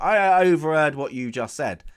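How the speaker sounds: loud, stammered butting-in; mock self-introduction. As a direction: pipe up as the eavesdropper. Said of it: "he kind of introduced himself".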